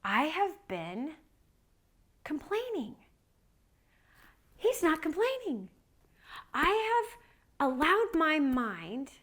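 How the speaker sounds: high, halting confession with long pauses; emotional, high-pitched self-reproach; pained confession. Retold or imitated. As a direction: confess it slowly, pausing between phrases. Retold prayer of confession.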